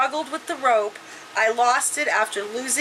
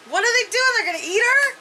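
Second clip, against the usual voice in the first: high, incredulous questions; shocked disbelief; 11 semitones higher, faster than usual. Real, not acted. Reader reacts to the cannibals, shocked. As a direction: ask it high, aghast.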